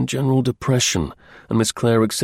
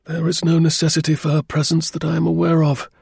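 higher, stiffly formal colonel; frigid; 7 semitones higher than usual. A narrator's reading. Colonel refusing a chair in Cray's office, frigid. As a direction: state it with cold formality. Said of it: "He received Mister Cray's welcome frigidly".

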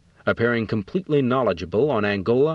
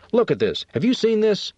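mildly worked-up, pitch leaping on the question; beside himself, narrated with some restraint; fuming; 12 semitones higher than usual. A narrator's reading. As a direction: show him the outrage, voice rising high. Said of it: "He was beside himself, fuming".

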